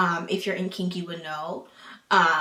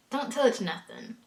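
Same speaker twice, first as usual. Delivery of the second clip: quieter repeat; 2 semitones higher, 5 dB quieter than usual. Real, not acted. Rule repeated, softer take.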